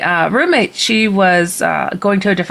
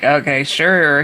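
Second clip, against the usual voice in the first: slow, lower, humoring agreement; skeptical teasing; 5 semitones lower, slower than usual. Retold or imitated. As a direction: drag it out as if unconvinced. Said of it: "I'm kind of being a stinker, like".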